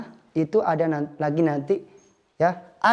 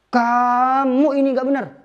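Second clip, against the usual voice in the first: "Kamu ini nggak benar." higher and louder; angry scolding; 5 semitones higher, 4 dB louder than usual. Shown as a demonstration. Teacher shows scolding an annoyed friend, angry. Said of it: "ketika marah ke suatu teman".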